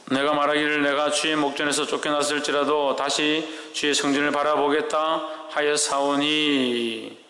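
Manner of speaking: slow, measured Bible reading; scripture reading. Acted. Pastor reading Jonah chapter two aloud, slow and solemn. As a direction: read the verse slowly, word by word. Pastor reads verse four.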